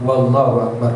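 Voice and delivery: "Wallahu Akbar" with a w sound added before Allahu; extra waw sound. Shown as a demonstration. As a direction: say "Wallahu Akbar", slipping a w onto the start. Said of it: "tidak boleh menambah huruf waw sebelum lafaz jalalah".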